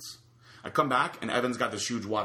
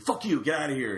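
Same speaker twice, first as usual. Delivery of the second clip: higher-pitched mock indignation; fed-up retort, pitched up; retold annoyed outburst; 6 semitones higher, 3 dB louder than usual. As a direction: act out an exasperated friend telling you off.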